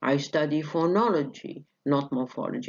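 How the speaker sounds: "phonology" accented against "morphology"; contrastive stress. Shown as a demonstration. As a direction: correct them, pitch moving on "phonology", then falling away. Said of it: "شوف جبت لك contrastive".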